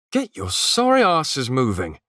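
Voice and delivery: loud, high captain's yell. A narrator's reading. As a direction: bark the order at the crew. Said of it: "yelled Gunnar".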